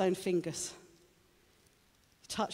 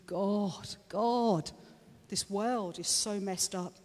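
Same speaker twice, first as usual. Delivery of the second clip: lament; 2 semitones higher, much slower than usual. Retold or imitated. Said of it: "It was a lament".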